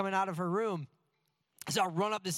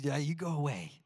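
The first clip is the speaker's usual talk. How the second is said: put-on blunt toddler voice. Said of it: "She says".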